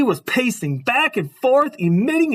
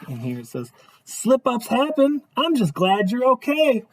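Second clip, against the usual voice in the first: storybook narration; 3 semitones higher than usual. A narrator's reading. Reads picture book aloud.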